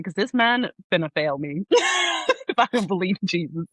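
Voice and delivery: words breaking into real laughter; laughing while telling. Real, not acted. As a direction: laugh through the punchline. Laughing at own story.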